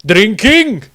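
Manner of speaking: loud, high eager cry; enthusiastic shout. A narrator's reading. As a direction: shout it out with gusto like a thirsty dwarf. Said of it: "Tordrad shouted enthusiastically".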